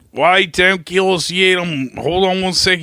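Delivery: hammed-up calm before the trick; mock casual. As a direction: play it breezy and unbothered. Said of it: "He's like".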